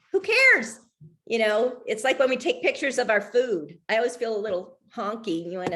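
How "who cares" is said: dismissive who cares. Real, not acted. Mocking her own trivial posts.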